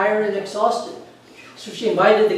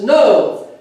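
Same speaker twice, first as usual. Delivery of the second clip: booming voice; 5 semitones higher, 7 dB louder, slower than usual. Retold or imitated. Booming voice answers.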